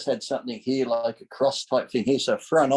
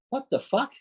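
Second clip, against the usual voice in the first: much higher, stunned outburst; retold shock, pitched way up; 12 semitones higher than usual. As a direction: hit it like sudden disbelief. Shocked at blindness risk.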